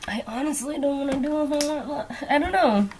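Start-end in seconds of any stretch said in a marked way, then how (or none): none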